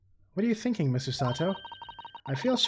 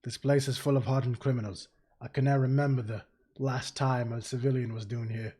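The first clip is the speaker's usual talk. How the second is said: put-on Irish accent; 4 semitones lower, 4 dB quieter than usual. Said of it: "Irish or something?".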